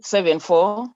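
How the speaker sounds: digits measured out with a slight lift; a phone number given pair by pair; slow dictation. Real, not acted. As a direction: dictate it for someone writing it down. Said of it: "I'll ask you to say it slowly".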